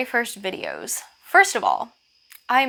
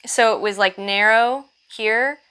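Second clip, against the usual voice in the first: slight lisp, new braces. Real, not acted. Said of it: "sorry about my lisp".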